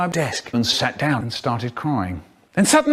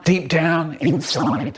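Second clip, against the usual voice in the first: usual speaking voice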